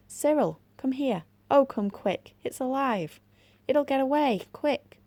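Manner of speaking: high, loud frantic scream for help. A narrator's reading. Girl screaming to brother at the hole, frantic shout. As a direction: shriek for her brother to come quick. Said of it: "Anthea suddenly screamed".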